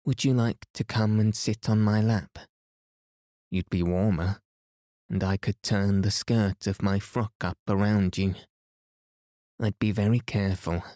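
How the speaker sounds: gentle, kindly offer. A narrator's reading. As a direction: coax with mild kindness. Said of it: "asked Anthea kindly".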